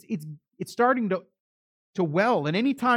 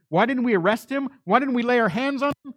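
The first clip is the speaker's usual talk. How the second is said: high, raised-voice incredulous questions; retold rhetorical questioning; 7 semitones higher, 4 dB louder than usual. Officers coming back without Jesus, acting out incredulous questions. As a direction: throw the questions back, pitched up and loud. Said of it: "This is how the officers are coming back".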